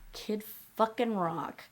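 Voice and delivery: hushed whisper of the name. Real, not acted. Comic whispering the name of the singer he despises. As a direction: whisper it like a dirty secret. Naming a disliked target.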